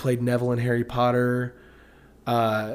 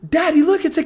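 very high, loud imitated little kid; excited child calling out, R dropped on caterpillar; son copying British accent; 11 dB louder than usual. Son showing dad a caterpillar, high mock British child voice. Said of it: "He's like".

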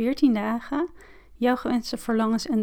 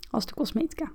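whisper; 2 semitones higher, 5 dB quieter, faster than usual. Real, not acted. Aside at end of ad.

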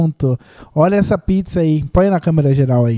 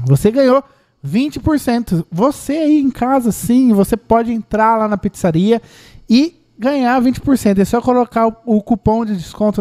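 higher, slow promo announcer read; booming prize announcer; 3 semitones higher than usual. Acted. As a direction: sell the discount like a prize. Announces the coupon to viewers.

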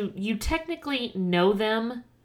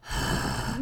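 breathy wordless reaction sound; a big voiceless breath of mock amazement; mock gasp; 3 semitones higher, 3 dB quieter than usual. Reacting to seeing a checkbook.

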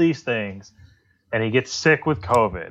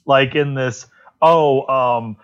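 exasperated disbelief; 3 semitones higher than usual. Retold or imitated. Mocking a podcaster's Amy comment, exasperated and incredulous. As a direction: throw up your hands in mock despair. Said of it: "And I was like".

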